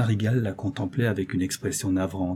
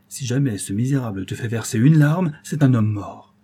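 menacing. Acted. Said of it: "L'accent du banquier était à ce point menaçant".

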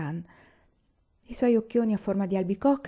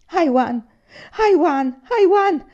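rising, ever louder calls of Aiwan; calling out; 9 semitones higher, 9 dB louder, slower than usual. A narrator's reading. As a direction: call his name, building each time. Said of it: "non faceva che ripetere".

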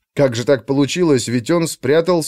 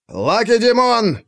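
war cry; 9 semitones higher, slower than usual. A narrator's reading. War cry before the charge.

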